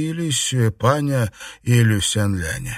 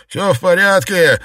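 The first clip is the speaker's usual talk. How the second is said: exclaimed; 7 semitones higher, 6 dB louder than usual. Acted. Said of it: "воскликнул он".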